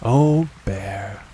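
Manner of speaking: affectionate, understated address; fond boy. A narrator's reading. Boy to his bear after the rescue, fondly. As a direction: say it with gentle fondness. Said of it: "said Christopher Robin".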